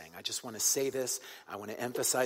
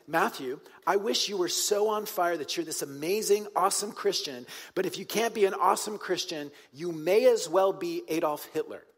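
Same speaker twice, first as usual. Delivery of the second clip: mock Jesus voice; 4 semitones higher, 3 dB louder than usual. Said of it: "Jesus is saying".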